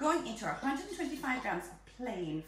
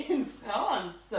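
put-on French accent; 3 semitones lower than usual. Hammed-up French saying of France.

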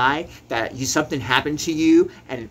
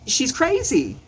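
heated; 12 semitones higher, 4 dB louder, slower than usual. Real, not acted. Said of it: "let me calm down".

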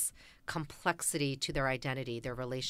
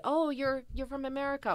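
mock realization; 9 semitones higher than usual. Koreans realizing she is from America, mock surprise. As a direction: act out suddenly catching on.

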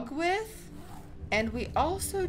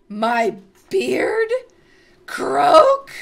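scoff, then grant it; haughty toad mother; 9 dB louder than usual. Acted. Toad mother bargains over her beard, haughty.

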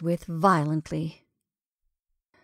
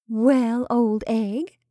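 cheerful; 3 semitones higher, 3 dB louder, much slower than usual. A narrator's reading. Betty to the camel beside her, cheerful. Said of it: "said Betty cheerfully".

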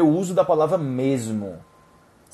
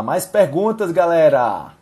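calling out; 3 semitones higher, 6 dB louder than usual. Real, not acted. Calling out to live audience.

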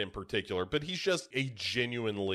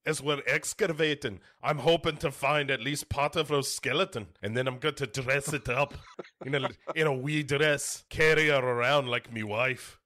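lightly hammed-up Scottish lecturer; Gerard Butler's Scottish accent. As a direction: joke along in a put-on Scottish accent. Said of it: "Legitimate Scottish accents happening".

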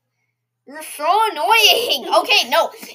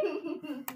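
censor beep; 16 dB quieter than usual. Pretend. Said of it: "we had to censor that".

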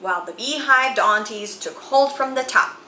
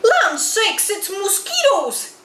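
high, louder Southern-lady cry of alarm; alarmed wail; 10 semitones higher, 3 dB louder than usual. A narrator's reading. Aunties swarmed by mosquitoes, wailing high with alarm. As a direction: shriek it in a fluster. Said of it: "cried the Mississippi Annies, wailing with alarm".

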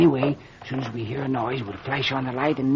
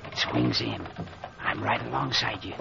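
whispered, much softer and lower; whispering; 6 semitones lower, 9 dB quieter than usual. Acted. Mayor whispering to the doctor at the study door. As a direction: keep it to a breath by the door.

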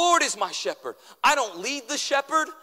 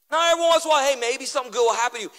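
mock exclamation; 3 semitones higher, 3 dB louder, much faster than usual. Preacher mocking half-hearted faith.

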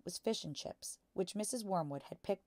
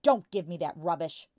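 loud dismissive shout; angry shout; 10 dB louder than usual. A narrator's reading. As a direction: shout her down. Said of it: "the father shouted".

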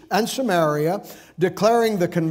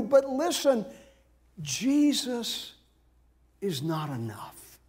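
hushed, slow-dropping confidential tone; insinuating aside; 3 semitones higher, 7 dB quieter than usual. Acted. Voicing Judaizers undermining the converts' faith.

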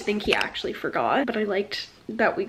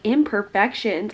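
offended retort; slower than usual. Pretend. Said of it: "If I was her, I'd have been like".

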